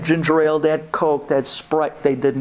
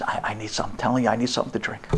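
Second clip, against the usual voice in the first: weary wife; 6 semitones lower, 7 dB quieter, much faster than usual. Retold or imitated. Wife insisting she's thirsty.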